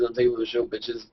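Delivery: understated announcement fading at the end. Acted. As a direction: toss it off softly, trailing down.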